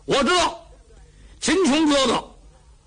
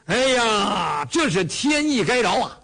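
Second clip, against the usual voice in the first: blustering exclaim; 3 semitones higher than usual. Acted. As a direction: bellow it out, full of bluster. Cheng exclaims, blustering loudly.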